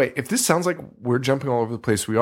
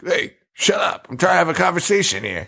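higher-pitched, hammed-up irritation; half-laughing mock scolding; mock annoyed yell; 6 semitones higher than usual. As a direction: imitate someone telling off noisy neighbours. Acts out character scolding the graves.

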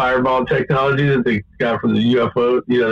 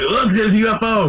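higher-pitched mock excitement; joking alarm; 8 semitones higher than usual. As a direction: call out a sighting as a joke. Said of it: "like, joking".

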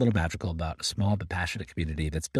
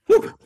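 relieved exhale; 12 dB louder than usual. Real, not acted. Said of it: "as my voice gave out".

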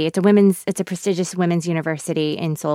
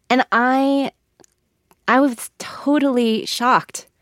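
whispered shock; 4 semitones higher, slower than usual. Real, not acted. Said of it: "whispered shock".

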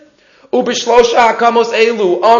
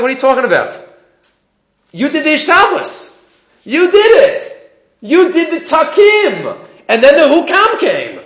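lightly voiced Chazon Ish; 6 semitones higher than usual. Chazon Ish answers the collector.

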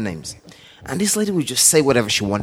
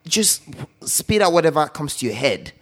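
firm telling off; 4 semitones higher than usual. Retold or imitated. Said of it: "And I said".

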